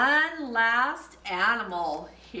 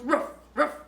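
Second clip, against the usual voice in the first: dog bark; 4 semitones higher than usual. Pretend. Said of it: "He goes".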